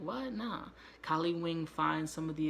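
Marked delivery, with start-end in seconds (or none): 0.0-0.7 incredulous refusal. Retold or imitated. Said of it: "looking at it like".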